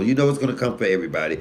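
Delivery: ordinary delivery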